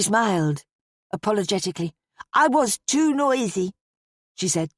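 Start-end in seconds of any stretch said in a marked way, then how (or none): 2.3-3.7 put-on high, slow child's voice; regretful little girl. A narrator's reading. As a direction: confess it as a sorry little girl. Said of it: "with regret".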